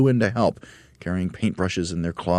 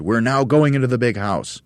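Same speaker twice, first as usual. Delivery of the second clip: raised, louder command; Mugglewump ordering; 7 semitones higher, 5 dB louder than usual. A narrator's reading. Monkey leader to his crew, ordering. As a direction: announce the plan as an order. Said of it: "Mugglewump ordered".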